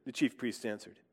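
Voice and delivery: measured, earnest reading of the Passion, voicing the crowd; scripture reading. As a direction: read the Gospel aloud to the congregation. Reads the Passion from John.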